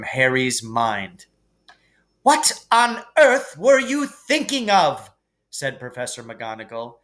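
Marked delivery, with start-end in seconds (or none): 2.2-5.1 high, loud, stern teacher's rebuke; cold fury. A narrator's reading. McGonagall confronts the boys after the troll fight, furious. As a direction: scold them with icy anger. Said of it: "with a cold fury in her voice".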